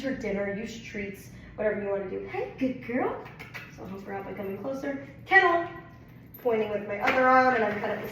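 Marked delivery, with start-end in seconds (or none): 2.3-3.2 high praise. Real, not acted. Praising dog. 5.3-5.7 command. Real, not acted. Command to dog.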